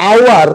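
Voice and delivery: said with no h, starting on the vowel; "আওয়ার" with the h left silent. Shown as a demonstration. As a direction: say "আওয়ার" opening straight on the "ow" sound. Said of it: "উচ্চারণ কিন্তু আমি এইচ করিনি".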